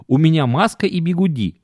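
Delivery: lightly voiced complaining wife; a hint of a tired, whining wife; whiny wife voice. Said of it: "аргументы, которые она приводила".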